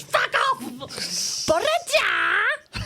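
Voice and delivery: put-on high, punchy Welsh accent. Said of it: "I can't do the Welsh accent".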